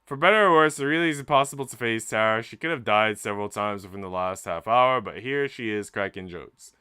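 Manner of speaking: dramatic storytelling read over the music; story narration. A narrator's reading. Streamer reads the game's story aloud to chat, storytelling voice. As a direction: read it like a novel's climax.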